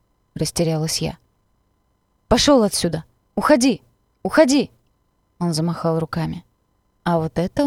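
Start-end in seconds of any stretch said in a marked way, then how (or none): 2.3-3.0 shout at dog. A narrator's reading. 3.4-3.8 higher, louder shout of Уходи!; Уходи! yelled as a shooing command; shout at dog. A narrator's reading. Stranger shoos the dog away, shouting Уходи!. 4.2-4.7 Уходи! again, even higher and louder, rising panic; Уходи! pushed up higher in desperation; shriller repeat shout. A narrator's reading. Stranger shoos the dog once more, Уходи! higher and more desperate.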